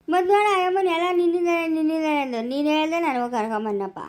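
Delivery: blaming him through tears; tearful blame. Acted. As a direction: complain with a catch of crying. Blaming the grandfather, upset. (ಅಳುತ್ತಾ ದೂರುವ ಧ್ವನಿ)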